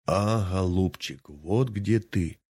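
lightly voiced squeak of a bird's beak, drawn slowly; a hint of a squeaky bird's beak. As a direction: mimic the beak mocking him. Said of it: "запищал птичий нос".

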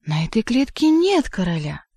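theatrical wail of disbelief; wailing in feigned horror. A narrator's reading. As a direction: protest in mock horror. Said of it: "завыл кот, изображая ужас".

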